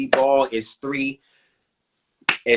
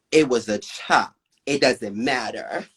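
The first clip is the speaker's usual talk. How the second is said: lightly voiced dismissive butch queen; a hint of a curt butch queen brushing it off. Judge dismissing the performer's complaint, lightly voiced butch queen. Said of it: "the way it was done, like a butch queen would".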